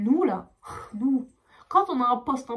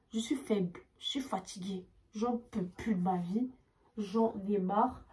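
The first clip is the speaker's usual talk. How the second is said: exhausted; 4 dB quieter, slower than usual. Real, not acted.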